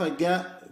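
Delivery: "جاء" voiced as g, as in go; Yemeni qaf. Shown as a demonstration. Teacher showing how Yemenis say qaf, "جاء" with hard g. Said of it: "اليمنيون ينطقون القاف".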